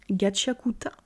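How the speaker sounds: mock Japanese accent on the name Gachakuta; jokey half-hearted Japanese accent, self-mocking; cheap Japanese accent. Shown as a demonstration. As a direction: say Gachakuta with an exaggerated Japanese accent, syllables even and clipped. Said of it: "avec mon magnifique accent, euh, japonais, un peu discount".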